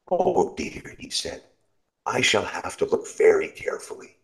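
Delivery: a high fretful sigh; old man resolving to keep watch; worried old man. Acted. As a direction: fuss to himself a little.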